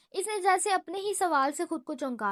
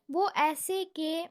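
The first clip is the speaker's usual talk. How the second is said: slow, drawn-out start of the answer; slowly; slower than usual. Acted. Yusuf slowly begins to explain. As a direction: hold back, slowly. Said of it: "آہستہ سے کہا".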